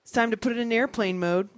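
high, loud polite attendant; prim flight attendant reminder. Retold or imitated. Attendant warning a passenger, high and polite. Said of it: "she was like".

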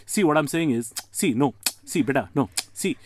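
mock Indian uncle holding forth; Indian uncle accent. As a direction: drag it out like a lecturing uncle. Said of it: "an Indian uncle will say stuff like".

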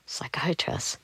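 whispered, rising in shock; quiet. Retold or imitated. Told she needs a psychiatrist, stunned soft whisper. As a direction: breathe the word out, stunned. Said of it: "I got really quiet".

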